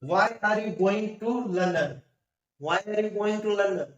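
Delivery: very slow, word-by-word English example; slow careful reading. Shown as a demonstration. Teacher reading an example to students, very slow and deliberate. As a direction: dictate each word slowly for learners. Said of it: "first example why का".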